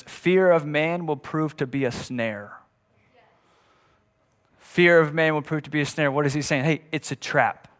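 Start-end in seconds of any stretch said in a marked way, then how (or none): 0.0-2.5 slow, deliberate reading of the verse; slow, weighty quotation of scripture. Shown as a demonstration. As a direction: lay out each word of the proverb slowly. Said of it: "says it like this".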